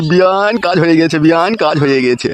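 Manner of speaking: slow, drawn-out crowing; gleeful announcement. Acted. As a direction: draw out each call in triumph. Gleeful announcement of success to partner.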